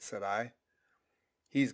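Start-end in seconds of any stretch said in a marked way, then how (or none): 1.5-1.7 nervous emphasis on "He's"; stress on HE'S. A narrator's reading. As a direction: lean nervously on the word "He's". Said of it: "placing a nervous emphasis upon the word he".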